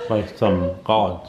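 slow, numb swollen cheeks; numb mouth. Real, not acted. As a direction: mumble through numb cheeks. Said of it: "very chipmunky".

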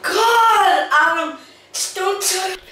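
high yelps from the icy water; in ice cold water. Real, not acted. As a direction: yell as the cold hits.

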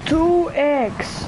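high, excited cry; thrilled exclaim. Real, not acted. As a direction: still can't believe the luck. Still thrilled by find.

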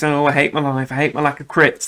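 mild mock whine, imitating a moaning mate; lightly voiced complaining friend; a hint of a sulky whinge; whinging friend. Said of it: "That's how he sounds".

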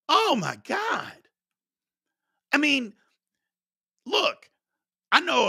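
slow, high, strained disbelief; stretched out and pained; exasperated oh my God. Real, not acted. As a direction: let it out like you can't believe the call. Bad ref call, exasperation.

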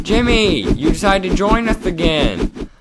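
high character voice sliding into mock dismay; high-voiced game character. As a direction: keep it high and plaintive.

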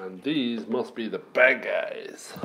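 slow hushed whisper. Acted. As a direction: whisper it like a secret. Hushed look at the bad guys.

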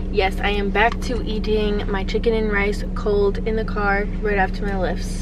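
talking while chewing; words round a bite of food; mouth full. Real, not acted. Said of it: "Stop, stop talking with your mouth full".

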